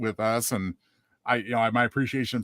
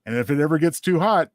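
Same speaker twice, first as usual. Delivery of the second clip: recited holiday rhyme; 3 dB louder than usual. Shown as a demonstration. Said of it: "And it goes like this".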